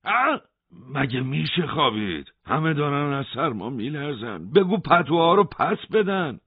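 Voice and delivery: insistent demand. A narrator's reading. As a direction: push hard for the blankets back. Hossein demands the major. (اعتراض بلند و پافشارانه)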